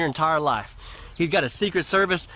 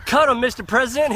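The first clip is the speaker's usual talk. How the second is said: urgent call; 6 semitones higher, 3 dB louder than usual. Acted. Hunters call the shot.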